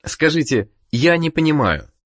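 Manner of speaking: ordinary delivery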